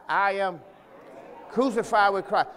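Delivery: say it like you're alive. Shown as a demonstration. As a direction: declare it like you mean it. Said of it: "say it like you're alive".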